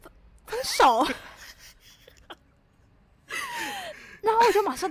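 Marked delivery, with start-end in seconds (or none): 0.0-1.1 slow stammered breakup. Retold or imitated. Quoting her breakup words.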